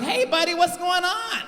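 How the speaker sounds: high-pitched mock white man; put-on high white-people voice; comedian's white-guy voice. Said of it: "that's the voice every black comedian use for white people".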